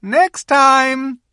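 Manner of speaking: high, loud parting call; Queen calling to Edmund from the sledge, loud. A narrator's reading. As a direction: call after him as the sledge leaves. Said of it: "calling out".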